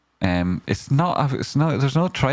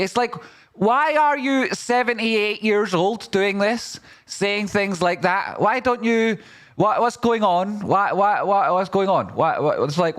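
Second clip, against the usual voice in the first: annoyed rant; 11 semitones higher than usual. Real, not acted. Baffled at a seventy-eight-year-old's crypto move, exasperated. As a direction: throw up your hands in disbelief. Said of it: "I'm so annoyed with it".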